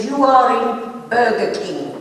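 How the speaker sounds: slowly spoken. Retold or imitated. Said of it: "will you say it slowly".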